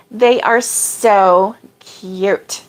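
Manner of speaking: slow, drawn-out gushing. Real, not acted. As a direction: stretch each word with delight. Gushing over crochet kisses.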